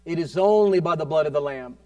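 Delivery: measured, emphatic declaration; firm preaching. Real, not acted. Preacher declaring the blood of the Lamb, firm emphasis. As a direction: declare it firmly to the congregation.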